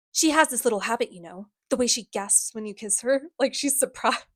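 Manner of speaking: lightly voiced taunting villain; a touch of creepy goading; Sebastian. Villain describes a kiss to her brother, lightly acted taunt. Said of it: "this is the Sebastian voice".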